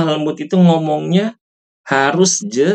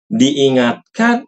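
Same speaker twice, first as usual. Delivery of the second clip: drawn out; much slower than usual. Shown as a demonstration.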